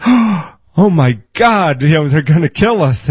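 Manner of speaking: high, gasping panicked servant; terrified whisper-shout of a scared servant. Acted. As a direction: gasp and panic at the army outside. Frightened servant voiced in story.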